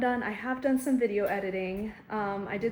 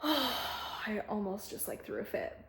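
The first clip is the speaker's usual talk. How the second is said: sighing; 6 dB quieter, slower than usual. Real, not acted. Sighing about frustration.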